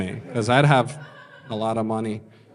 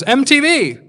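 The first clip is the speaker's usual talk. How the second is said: high-pitched mock yell; imitated shout; 11 semitones higher, 4 dB louder, slower than usual. Guy on Hollywood Boulevard shouts at the comic, high imitated shout. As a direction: call it out like an excited passerby. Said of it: "a guy just shouts at me".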